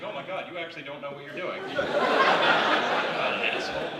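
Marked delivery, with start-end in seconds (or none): 0.0-1.6 mock confused pity. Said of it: "He's like".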